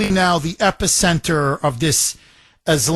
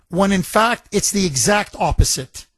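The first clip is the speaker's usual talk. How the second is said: ordinary delivery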